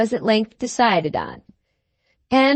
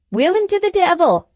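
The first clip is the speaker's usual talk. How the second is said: furious captain; 9 semitones higher than usual. Acted. Furious captain orders gardener.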